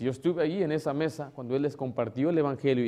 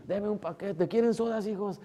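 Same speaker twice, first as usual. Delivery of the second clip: grandma voice; 7 semitones higher than usual. Retold or imitated. Abuelita atiende a los nietos.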